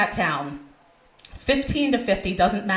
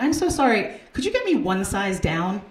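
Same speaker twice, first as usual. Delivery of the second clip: calling back. Retold or imitated. Shopper to saleswoman from the dressing room, calling back. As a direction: politely call out a request, pitched up at first. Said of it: "I just call back".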